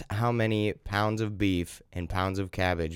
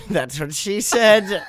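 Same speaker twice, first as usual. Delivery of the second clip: higher, slow Irish voice, laughing; laughing Irish brogue; 9 semitones higher, 4 dB louder, slower than usual. Acted. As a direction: crack the joke in a hammy brogue. Irish guest character joking.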